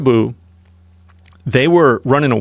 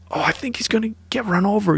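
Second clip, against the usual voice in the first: high-pitched impression of a worried onlooker; retold worry in a raised, put-on voice; imitated worry; 10 semitones higher, 3 dB quieter than usual. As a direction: imitate her fretting, pitched well up. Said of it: "really worried".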